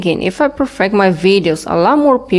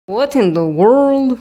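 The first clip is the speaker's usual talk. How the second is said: disbelief; 5 semitones higher, slower than usual. Real, not acted. Outraged at creepy boss.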